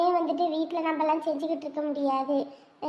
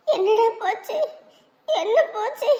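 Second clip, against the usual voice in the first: tearful panic; 4 semitones higher than usual. Acted. Mother frantically asks while sobbing.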